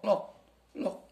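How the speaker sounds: lock said with a short o, like English lock; look read as lock. Shown as a demonstration. Teacher showing how look gets misread, short o. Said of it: "dibaca lock".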